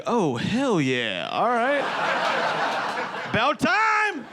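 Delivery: high, proud, pleased voice; smug taxpayer. Retold or imitated. Hot person getting a tax letter, high and smug. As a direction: squeak it out like you've finally been recognized. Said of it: "you'd be like".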